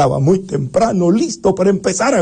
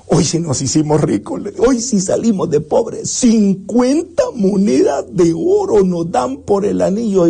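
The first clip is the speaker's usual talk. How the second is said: overjoyed youth; 4 semitones higher than usual. Acted.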